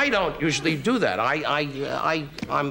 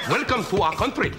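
high-pitched put-on Indian accent; 6 semitones higher than usual. Retelling the welcome given on arriving in the country, in a put-on indian accent. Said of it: "they talk like that because they're all from India".

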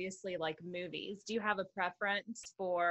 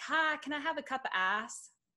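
put-on small-town regional accent, played up, pitched up; 7 semitones higher than usual. Speaker retells ordering at a drive-thru, speaking in an accent. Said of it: "I love that accent".

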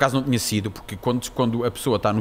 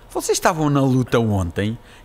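ordinary talk

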